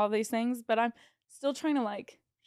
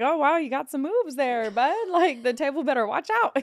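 teasing hype; 3 semitones higher, 5 dB louder than usual. Retold or imitated. Mock-admiring his table dance.

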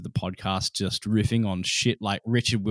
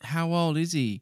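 echoed cue line; 5 semitones higher than usual. Acted. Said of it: "Now you do that".

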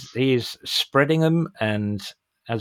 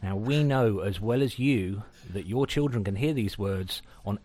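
measured, tongue-in-cheek announcer read; scripted disclaimer read; 4 dB quieter than usual. Acted. Podcast host warns listeners about swearing, mock-official announcer read. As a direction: read it like an official content warning. Reads the podcast's warning intro.

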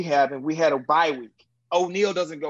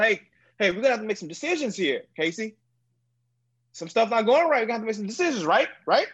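coach's way of talking; 3 semitones higher, much faster than usual. Retold or imitated. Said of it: "That's how W B talk".

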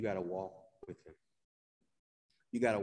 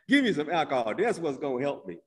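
loud, higher mock plea for a drink; retold demand for a drink; 5 semitones higher, 7 dB louder than usual. Grieving teen shouting at his family for a drink, loud mock plea. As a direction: belt it out like a grieving teen begging. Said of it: "drink of alcohol".

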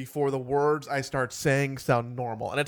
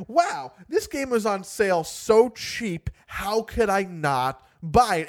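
excited; 5 semitones higher, 3 dB louder than usual. Retold or imitated. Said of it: "you're just like".

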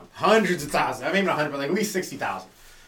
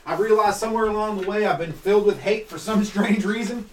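lightly acted parent's epiphany, pitched up; mock-earnest confession to your child; repentant racist parent; 4 semitones higher than usual. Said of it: "if you're racist, you should just let your kid".

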